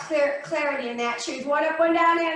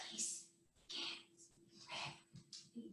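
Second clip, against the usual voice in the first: whisper; 27 dB quieter than usual. Shown as a demonstration. Teacher leading the class in finger-tapping meditation, whispered. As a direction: whisper it word by word, with long gaps. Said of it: "Now we're gonna whisper".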